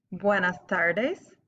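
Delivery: "Buenas noches" drawn out slowly; slow model to repeat. Shown as a demonstration. Teacher saying "Buenas noches" for students to repeat. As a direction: give it slowly so they echo it. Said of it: "I'm gonna say it, and then I want you to repeat it".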